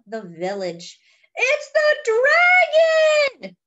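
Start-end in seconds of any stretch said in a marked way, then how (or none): 1.3-3.6 high loud alarmed cry. Acted. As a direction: shout it like a startled fisherman. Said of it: "cries the fisherman".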